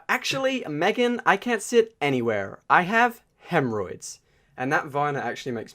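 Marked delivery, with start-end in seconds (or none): 0.1-4.2 high, loud mock indignation; theatrical high-pitched comeback; hammed-up vine retort. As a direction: act it out loudly, pitched way up. Acts out a vine quote.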